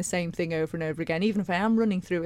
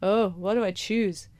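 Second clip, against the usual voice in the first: the voice; slower than usual. Retold or imitated. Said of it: "that voice comes out".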